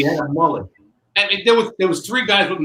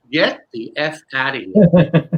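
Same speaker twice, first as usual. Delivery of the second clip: exasperated inner voice; 5 dB louder, slower than usual. Retold or imitated. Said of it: "my inner dialogue is".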